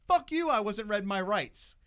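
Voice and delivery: retold outburst of righteous indignation; retold defiance. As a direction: defy the officer loudly, drawing the words out. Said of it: "I'm a white dude that's like".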